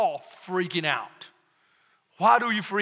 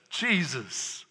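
hushed reverent name; 7 semitones lower, 6 dB quieter than usual. Acted. The angel's announcement, reading Luke.

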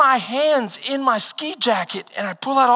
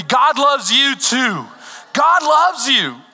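slow and louder, leading the crowd; louder, slow call to repeat; 3 semitones higher, 3 dB louder, slower than usual. Shown as a demonstration. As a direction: say it slowly and firmly so they join in. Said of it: "Say it with me".

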